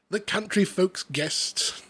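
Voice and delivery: slow, lightly put-on Hugh Grant reading. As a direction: read it slowly as a mild Hugh Grant. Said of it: "now I'm Hugh Grant".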